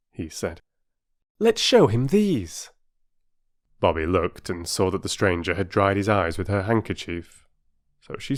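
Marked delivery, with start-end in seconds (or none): 1.4-2.7 put-on much higher, slower boyish voice; a boy proposing a plan; young Peter, eager. Peter suggesting they show the stranger stamps, higher eager voice.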